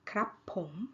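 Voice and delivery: KRAP short, then POM rising. Shown as a demonstration. Teacher recapping male speakers' particle, rising tone. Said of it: "rising tone".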